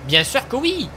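upbeat advert read; ad announcer. Pretend. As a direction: sell it like a TV ad. Parody ad read.

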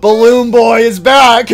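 loud, slow dramatic reveal; excited announcement. Real, not acted. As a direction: announce it like a boss entrance.

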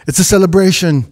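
put-on Jamaican accent. Quoting a DJ on the mic, mock Jamaican accent. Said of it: "like a Jamaican accent".

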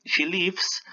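"lives" in "she lives" with a short i; verb pronunciation of lives. Shown as a demonstration. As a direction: say "lives" to rhyme with gives. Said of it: "Una cosa es ella vive".

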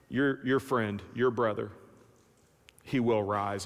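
low, measured comfort with pauses; gentle consoling Jesus. Acted. Jesus telling grieving Martha about her brother, gently consoling.

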